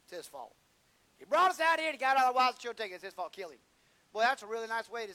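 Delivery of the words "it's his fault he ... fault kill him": mob demand. Retold or imitated. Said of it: "They turned on David and said".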